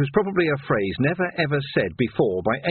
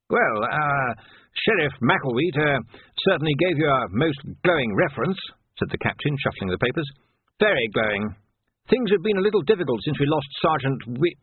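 lightly voiced hesitant official, higher pitch; flustered captain; 4 semitones higher than usual. Captain concedes to Vimes, lightly flustered. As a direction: hem and haw over the papers.

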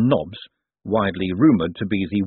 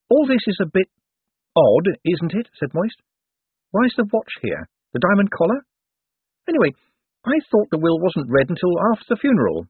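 uneasy Moist; 10 semitones higher, 4 dB louder than usual. Acted. Moist grows suspicious.

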